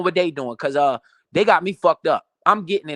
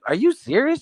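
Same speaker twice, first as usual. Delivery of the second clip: higher, incredulous imitation of her; mock incredulous girlfriend; 10 semitones higher than usual. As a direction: play her shocked disbelief. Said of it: "She said".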